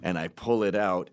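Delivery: ordinary delivery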